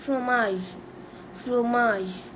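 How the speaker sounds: "fromage" as "fro-MAJ" with a falling end; teacher modelling "fromage"; French pronunciation. Shown as a demonstration. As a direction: say "fromage" the French way, stress on the last syllable. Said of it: "We say cheese in French".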